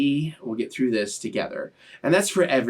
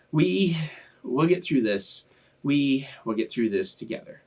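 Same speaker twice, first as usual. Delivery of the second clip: choked up; slower than usual. Real, not acted. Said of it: "Wow, I am getting extra emotional".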